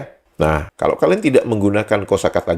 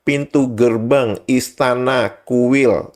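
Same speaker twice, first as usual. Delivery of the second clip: pointed reading; 4 semitones higher, much slower than usual. Real, not acted. Reads dictionary entry out pointedly.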